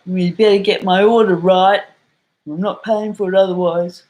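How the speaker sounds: giving out. Acted. Customer at the counter berating a poor worker, loud scolding. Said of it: "giving out, as we say in Ireland".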